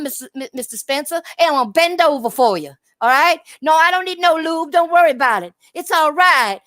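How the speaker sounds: mock groveling fan. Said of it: "That's the way you sound".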